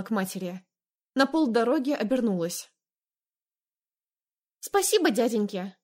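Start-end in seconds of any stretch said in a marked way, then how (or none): 4.6-5.8 flirty giggle. Acted. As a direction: tease them with a giggle. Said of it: "В хихиканье отчётливо слышался флирт".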